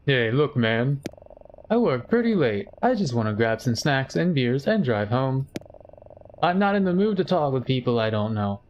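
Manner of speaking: hammed-up game stranger brushing someone off; stiff, overdone video game dialogue read; Silent Hill voice acting. Streamer voicing the tired stranger, stiff game-acting voice. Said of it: "my best Silent Hill two voice acting impression".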